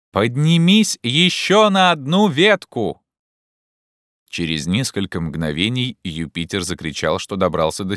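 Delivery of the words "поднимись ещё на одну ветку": slow, high, loud call; calling up orders. Acted. Legrand sends Jupiter one branch higher, calling up. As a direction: holler the order upward.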